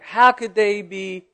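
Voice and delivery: mildly acted outrage; retold indignation. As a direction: object as if affronted by the request. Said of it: "I was indignant about the request".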